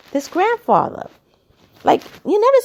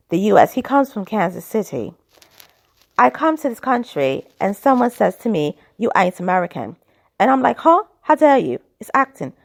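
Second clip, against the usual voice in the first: imitating a British actor's complaint in his accent; amateur British accent, quoting an actor; attempted British accent. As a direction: do your best British accent, brisk in places. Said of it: "do it in the best possible British accent".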